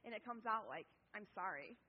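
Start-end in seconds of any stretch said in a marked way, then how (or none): 1.2-1.7 grudging mock apology; not heartfelt. Child told by parent to apologize, not heartfelt. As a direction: say sorry as if you were made to. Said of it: "it's not heartfelt at all".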